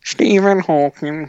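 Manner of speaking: slow, loud synthesizer-style delivery; put-on robotic voice; Stephen Hawking. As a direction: drone it out like a speech computer. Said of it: "who would you like to sound like".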